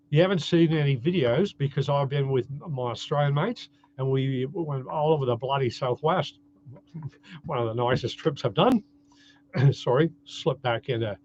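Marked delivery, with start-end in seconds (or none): 0.1-8.8 put-on light, imperfect Australian accent; Aussie accent. Canadian vlogger on a trip with Australian mates, mock Aussie accent. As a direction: have a go at sounding Aussie. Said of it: "I don't do a great Aussie accent".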